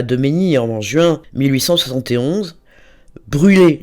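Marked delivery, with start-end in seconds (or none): 3.3-3.8 a sharp, loud command to burn; commanding cry. Acted. Poet's letter read aloud, a loud commanding cry. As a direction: order it like a desperate poet.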